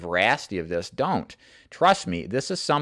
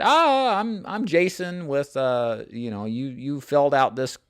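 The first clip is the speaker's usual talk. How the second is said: imitating stumbling nervously; 3 semitones higher than usual. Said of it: "he kinda stumbled over his words".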